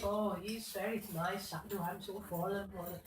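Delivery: a light, joking hint of an Indian accent; humble devotee in a mild mock Indian accent. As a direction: tease with a put-on Indian accent, barely shifted. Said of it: "ridiculous Indian accent".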